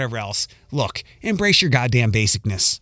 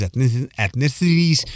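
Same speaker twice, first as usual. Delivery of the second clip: words slurred round a retainer; wearing a retainer. Real, not acted. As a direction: talk with retainers in. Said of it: "Sorry, my retainers are in".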